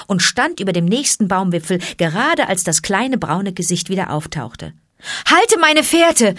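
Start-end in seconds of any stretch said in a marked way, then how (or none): 5.3-6.3 high, loud, slow call. A narrator's reading. Mowgli calling up to the vulture, high and slow. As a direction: call it up into the sky. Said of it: "rief Mowgli ihm zu".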